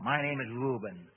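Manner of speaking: slow, loud demon answer; a hint of a growl, drawn out; near growl. A narrator's reading. Demon gives its name to Bob, almost growling. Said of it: "spoke almost in a growl".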